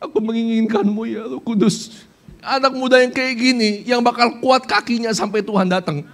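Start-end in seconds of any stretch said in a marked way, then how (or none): 0.0-2.0 tender prayer. Pretend. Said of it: "Ketika kamu ngomong".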